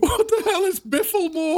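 high, incredulous pupil voice; baffled outburst. Acted. Pupil hearing an unknown house name, high baffled outburst. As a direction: blurt it in exasperated confusion.

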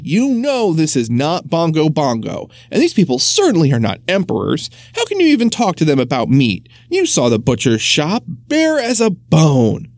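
sternly. Acted. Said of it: "said Winston sternly".

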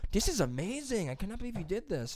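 high imitated Hispanic-accented delight; amazed interviewer with a light Hispanic accent; mock Hispanic accent. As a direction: gush in a put-on Hispanic accent. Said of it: "She had so bad broken English".

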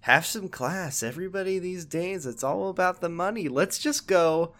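put-on old-timey detective. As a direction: stretch each word like a cartoon gumshoe. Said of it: "And then Billiken's like".

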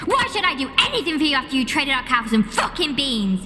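shrill falsetto tirade; hammed-up maternal fury; furious mother. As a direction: rant in a very high put-on mum voice, climbing at the end. Mother's furious rant at Jack.

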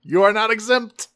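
high, loud, hammed-up scolding; mock menacing rebuke. Megatron turns on a laughing onlooker, mock menace. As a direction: pounce on the onlooker with relish.

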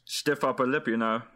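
badly faked English aristocrat accent. Joking about British aristocrats in a self-confessed terrible English accent. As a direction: have a poor go at an English accent. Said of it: "That was my worst accent I've ever done".

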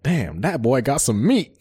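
slow, drawled Southern mock of a singer; lightly put-on Southern drawl, stretching it out; a singer's Southern voice. Quoting a singer on The Breakfast Club in a mild Southern drawl. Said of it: "you know how he has that funny ass, like, Southern voice?".

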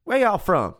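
high, loud friendly Southern-guy voice; big local guy. Retold or imitated. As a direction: play the big guy calling over from his wings. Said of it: "He's like".

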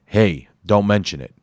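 loud raspy New York tough guy; Bomberhead's raspy New York voice. Acted. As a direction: rasp it out with a New York accent. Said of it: "he said in a raspy voice".

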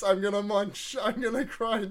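lightly voiced Marco, barely shifted; a hint of Marco, chanting the munch crunch. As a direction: friend doing a quick Marco voice for laughs. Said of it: "Marco voice".

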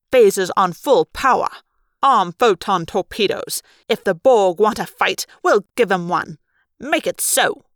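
hammed-up captain barking battle orders; mock starship captain.

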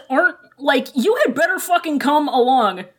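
exasperated Jong Chung. Retold or imitated. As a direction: nag him to come along, fast at the end. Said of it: "Jong Chung is like".

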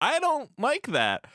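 high, slow, disapproving Catwoman. Retold or imitated. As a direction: drag it out, unimpressed. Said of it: "Catwoman's like".

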